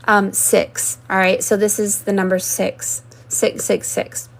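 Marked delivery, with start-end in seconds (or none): 3.3-4.3 whisper. Acted. Ominous number named.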